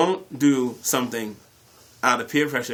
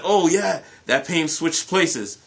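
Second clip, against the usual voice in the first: much higher, louder, slow lame excuse; flustered excuse; 6 semitones higher, 4 dB louder, slower than usual. Retold or imitated. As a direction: stall while inventing the lie.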